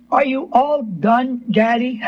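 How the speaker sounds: slow, gentle asking; retold gentle child's question. Little girl looking up at scolding father, gentle. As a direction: ask it slowly and gently, as the child did. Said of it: "Real gentle".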